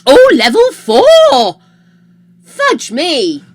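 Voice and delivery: high, loud delighted cry; excited. Real, not acted. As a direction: burst out with joy. Hype level reached.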